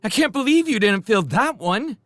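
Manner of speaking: high, loud disbelief; incredulous. Acted. Showen, high and loud, amazed they felt nothing. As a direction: sound amazed they missed it.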